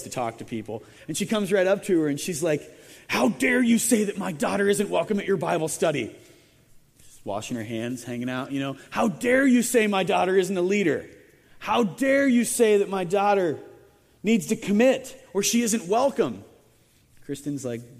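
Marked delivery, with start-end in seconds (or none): 3.1-6.1 indignant mock confrontation; mock outraged parent; angry mother. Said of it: "this lady was pretty mad". 8.9-16.4 louder, indignant mock confrontation; hammed-up outraged parent; angry mother. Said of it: "this lady was pretty mad".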